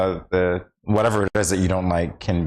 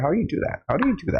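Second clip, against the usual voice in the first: high-pitched baffled question; acting out wonder, pitch climbing high; retold amazement; 11 semitones higher, much faster than usual. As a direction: plead to know, voice pitched way up. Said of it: "And I'm like".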